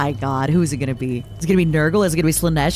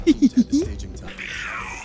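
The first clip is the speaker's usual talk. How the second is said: high, airy giggle; 7 semitones higher, 4 dB quieter than usual. Real, not acted. Streamer amused by the soldier's abdominals, high giggle.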